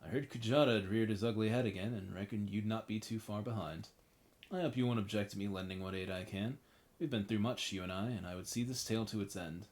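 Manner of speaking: put-on a light, muddled rustic British accent; vague accent. Reading an ally's offer of help, vague British accent. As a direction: read the companion's lines in a loose rustic British accent. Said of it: "I have no idea what that accent was".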